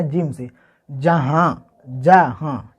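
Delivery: जहाँ with nasal final vowel, slow; nasal jahan. Shown as a demonstration. Teacher models जहाँ with nasal ending for students. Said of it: "जैसे कि हम यहाँ पे लिख लेते हैं जिम से जहाँ".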